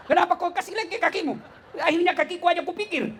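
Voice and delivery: high, indignant mock complaint; scolding. Preacher scolding the man who stepped on his foot, retold indignation. Acted scolding after the prayer.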